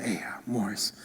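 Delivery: hushed, fast conspiratorial whisper; secret whisper. Retold or imitated. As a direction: ask like buying from a dealer, breathed out. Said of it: "they'll whisper".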